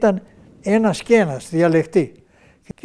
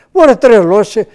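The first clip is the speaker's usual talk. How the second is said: louder, scolding disbelief; incredulous loud retort; 3 semitones higher, 8 dB louder than usual. Retold or imitated. Relatives at the dock scold him, loud and incredulous. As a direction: call him crazy, loud and amazed. Relatives shocked at the rotten ship.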